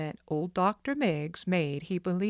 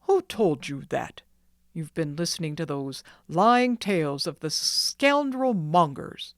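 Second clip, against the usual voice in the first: louder, indignant scolding; angry doctor; 5 dB louder than usual. Acted. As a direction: denounce the gossipers hotly. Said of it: "roared the doctor in a terrible voice".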